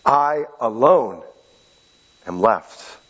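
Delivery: slow, hushed and lonely; forlorn. Shown as a demonstration. Preacher re-reads Elijah's lament, slow and forlorn. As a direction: let the loneliness sink in. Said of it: "Let me say that again".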